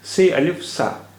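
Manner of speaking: से अलिफ सा said slowly, with से stressed and falling; slow teacher's demo of से अलिफ सा; slow, careful demo. Shown as a demonstration. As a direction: spell out से अलिफ सा slowly for the learner. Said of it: "देखिए".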